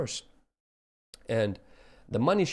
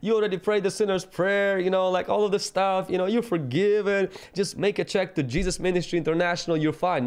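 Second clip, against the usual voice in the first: mock easy Jesus; 5 semitones higher than usual. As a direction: parody of a cheap-grace preacher. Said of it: "He didn't say".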